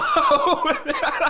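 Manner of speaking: squealing laugh; high laugh. Real, not acted. Laughing at joke.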